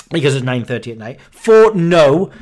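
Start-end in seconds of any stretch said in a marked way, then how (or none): 1.3-2.3 grumpy. Real, not acted. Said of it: "because I'm grumpy".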